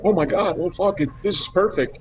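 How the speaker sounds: imitating the casting team's high, thrilled gush; excited exclamation. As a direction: retell their delighted surprise in a lifted voice. Casting people thrilled by audition.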